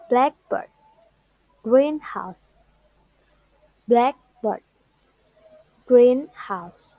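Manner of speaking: BLACK in Blackbird, GREEN in greenhouse; stress on first part. Shown as a demonstration. Teacher giving compound noun examples, first parts stressed. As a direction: hit BLACK and GREEN, drop "bird" and "house". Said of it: "stress is on the first part".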